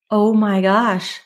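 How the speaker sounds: slow, drawn-out dawning gasp of words; stunned realization. Retold or imitated. Leaving the mentor's studio, slowly realizing she's right. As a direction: let it sink in slowly, awed. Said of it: "And I left and I was like".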